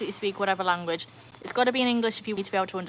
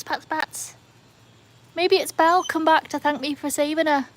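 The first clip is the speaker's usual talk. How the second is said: higher, thrilled running commentary; real excitement; 6 semitones higher, 5 dB louder than usual. Real, not acted. Streamer shows viewers the bats are back, real excitement. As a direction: exclaim at a sudden wonderful sight. Bats return over the pool.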